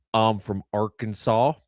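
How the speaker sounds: slow Southern drawl; slow Southern accent. Shown as a demonstration. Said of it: "is an octave lower and twice as slow".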